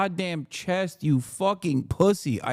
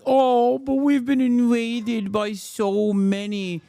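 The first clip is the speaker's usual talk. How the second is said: mocking whiny politician; 2 semitones higher than usual. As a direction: parody him as a self-pitying whiner. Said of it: "where he's just like".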